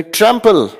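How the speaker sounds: loud drill word. Shown as a demonstration. Teacher leading a loud vocabulary drill, calling out. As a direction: call it out high so students echo it. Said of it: "मेरे साथ ऊंची आवाज में बोलने की कोशिश करें".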